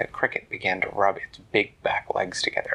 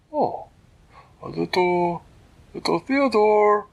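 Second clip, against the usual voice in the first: higher, louder, delighted; delighted squeal; 11 semitones higher, 8 dB louder, slower than usual. Acted. Girl delighted by the kitten's name, higher and louder. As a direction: gush over the little kitten.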